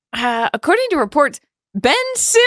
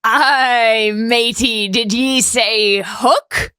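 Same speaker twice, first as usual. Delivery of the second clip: a hint of a pirate accent; lightly voiced pirate; much slower than usual. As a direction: drawl it like a pirate. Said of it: "You've gotta be kidding me".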